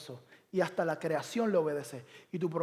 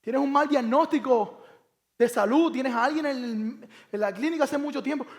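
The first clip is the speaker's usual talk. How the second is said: slow heavy preaching; 6 semitones higher, 6 dB louder than usual. Acted.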